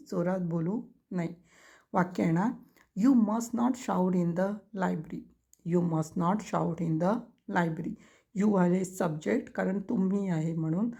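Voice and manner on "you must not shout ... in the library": each word spaced out for writing; slow dictation. Shown as a demonstration. Teacher dictating to students, very slow word by word.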